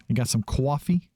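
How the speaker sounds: light Boston twang on "coffee" as kwahfee; "coffee" stretched Boston style as kwahfee, rising; Boston accent. Shown as a demonstration. Gamer finds coffee, asking in a mild Boston accent. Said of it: "the Bostonian accent?".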